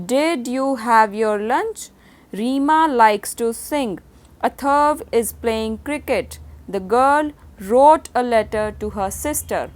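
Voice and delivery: each word spaced out, very slow; teacher reading example sentences very slowly; slow dictation reading. Shown as a demonstration. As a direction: read it slowly for the class to copy. Reads example sentences aloud.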